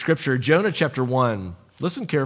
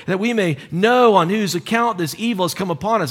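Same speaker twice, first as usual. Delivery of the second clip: mildly raised voice, calling across; a touch of shouting to shipmates; yelling back and forth; 3 semitones higher than usual. Acted. Sailors casting lots to find blame, mild yelling. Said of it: "you hear them yelling back and forth".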